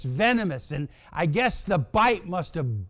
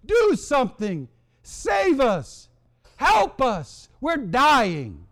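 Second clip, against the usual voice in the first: desperate repentance; 2 semitones higher than usual. Acted. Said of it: "They come to their senses in verse seven".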